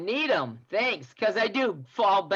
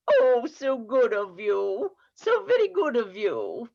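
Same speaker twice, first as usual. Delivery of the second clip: a hint of a poor orphan pleading in English accent; lightly voiced English beggar child. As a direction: beg meekly for bread like a hungry English orphan. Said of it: "you tend to have a Southern and an English accent".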